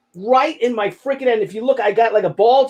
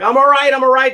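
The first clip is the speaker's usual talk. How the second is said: louder, brave insistence; forced reassurance; 4 semitones higher, 5 dB louder, faster than usual. Retold or imitated. Father reassuring his scared son, louder brave insistence. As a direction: tough it out for your son.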